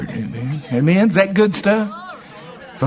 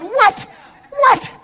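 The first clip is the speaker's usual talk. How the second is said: higher, louder, laughing mock outrage; delighted shout; 3 dB louder than usual. Pastor reliving his reaction to God, laughing shout. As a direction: shout at a sneaky surprise, laughing.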